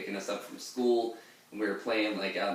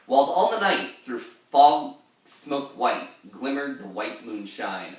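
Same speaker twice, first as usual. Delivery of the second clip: put-on slow, louder dramatic old sailor reading fading down; Ancient Mariner voice; 3 semitones higher, 6 dB louder, slower than usual. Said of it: "that's the end of the Ancient Mariner saying that".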